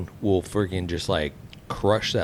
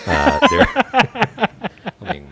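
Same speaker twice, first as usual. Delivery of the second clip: laughing; 8 dB louder than usual. Real, not acted. Breaks out laughing after impression.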